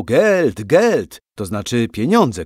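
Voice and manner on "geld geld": loud, high, greedy demand; shouting. A narrator's reading. Swedish soldiers swarm the house demanding money, shouting. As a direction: shout it out twice, punchy and high. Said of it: "krzyczało".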